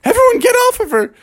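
quickening, rising alarm; acted children fretting over granny; worried kids. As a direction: build from concern to a high urgent order. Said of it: "all the kids were like".

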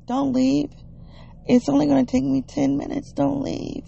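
high-pitched pleading imitation; put-on high voice, asking them to stay; imitated plea. Imitates person asking sister to wait.

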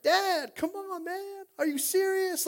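high, loud disbelieving plea; retold out-of-your-mind excitement; fired up. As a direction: protest excitedly to a father. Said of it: "I'm getting fired up out of my mind".

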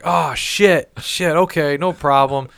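mock concerned agreeing. The speaker pretending to be the trucker, high mock concern. The speaker playing along on phone.

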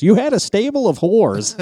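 high-pitched retold accusation, laughing; mock accusation. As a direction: hoot it as a teasing charge.

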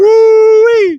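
high whooping cheer; excited whoop. Real, not acted. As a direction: let out a big whoop. Celebrating the new record.

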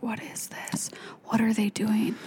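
hushed retold whisper; breathy whisper, scandalized. Retold first time watching porn.

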